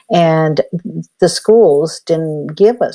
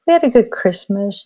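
mom correcting; 7 semitones higher than usual. Retold or imitated. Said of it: "And then his mom says".

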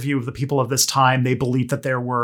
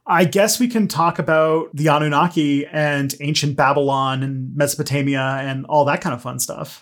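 unenthusiastic. Real, not acted. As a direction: settle into a subdued, reluctant delivery. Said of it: "don't sound so, so excited about it".

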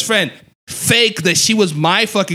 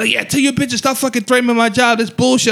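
high, sing-song mock of an angry woman; lightly voiced accuser, taunting; mocking the manager; 10 semitones higher than usual.

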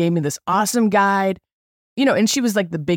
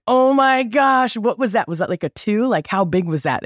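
thrilled rider; 5 semitones higher than usual. Retold or imitated. Rafter asking guide about rapid, thrilled. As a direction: gasp after the first rapid. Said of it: "it was exhilarating".

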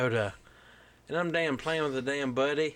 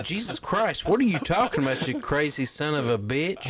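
incredulous outburst. Retold or imitated. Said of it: "And I'm like".

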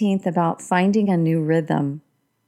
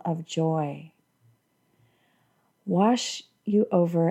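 calm meditative tone. Acted. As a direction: guide the listener gently into calm. Leads a guided meditation.

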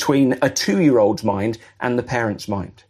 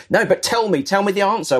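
Habakkuk pressing God, pitched higher; insistent prophet; 6 semitones higher than usual. Retold or imitated. Habakkuk pushing God for an answer, insistent. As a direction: beg a little, mock-insistent.

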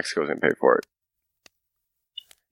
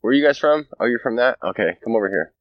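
higher, amused alien looking down at humans; mock alien voice; 5 semitones higher than usual. Alien to other aliens, mocking humans, higher mock voice. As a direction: play a smug alien pointing at us. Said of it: "they're all like".

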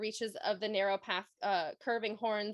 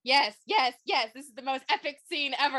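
excited; 3 semitones higher, 6 dB louder than usual. Real, not acted. Excited about the epic scene.

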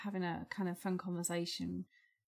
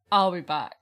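Schwarzenegger impression; 8 dB louder than usual. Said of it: "What the fuck was that?".

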